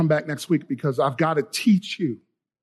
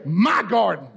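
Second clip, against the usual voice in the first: "My" punched, "garden" falling away; firm call-and-response prompt on "My garden"; emphatic demonstration; slower than usual. Shown as a demonstration. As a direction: hit "My" hard and let "garden" drop.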